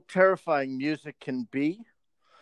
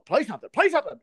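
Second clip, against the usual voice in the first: higher, louder nagging crowd voice; mock pushy crowd; 10 semitones higher, 4 dB louder, much faster than usual. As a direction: play the impatient crowd, pitched up.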